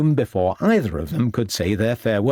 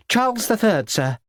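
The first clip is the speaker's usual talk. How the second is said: schoolboy answer; 11 semitones higher than usual. A narrator's reading.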